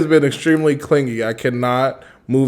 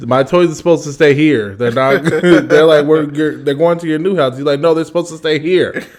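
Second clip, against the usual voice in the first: lightly voiced upset toddler; a hint of a whiny toddler; little son; 3 semitones higher than usual. Dad retells son upset at movers, mildly whiny toddler voice.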